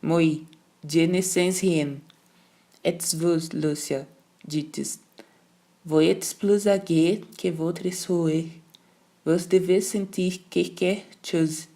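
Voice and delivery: slow, gloating governess in French; triumphant governess pressing the older sister. Acted. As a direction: savour the victory slowly. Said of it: "Triunfante, triunfante".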